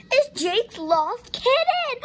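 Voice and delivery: high, loud, drawn-out squeal; excited discovery. A narrator's reading. Katie finds the kitten in the tree, high excited squeal. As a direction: exclaim it with amazed delight.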